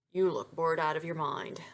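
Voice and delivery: low, hushed man's voice; deep voice. A narrator's reading. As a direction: drop into a low, half-whispered register. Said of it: "observed a deep voice behind her".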